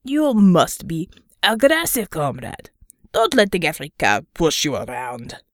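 put-on Russian accent with mouth full. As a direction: talk around a mouthful of ravioli. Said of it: "speaking around another mouthful of ravioli".

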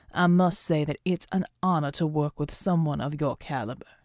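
a hint of a gracious old soldier; courtly older man.

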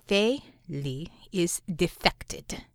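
slow, flat, whispered rage. Acted. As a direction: barely whisper it, holding back fury. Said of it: "The reply was so flat that only immense rage could be behind".

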